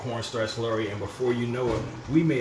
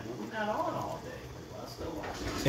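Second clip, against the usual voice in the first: mock viewer dialogue; 10 semitones higher, 5 dB quieter than usual. Acting out viewer exchange.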